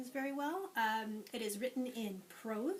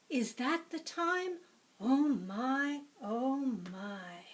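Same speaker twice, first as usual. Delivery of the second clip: with a cry; 3 semitones higher, 5 dB louder, much slower than usual. Acted. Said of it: "said with a cry".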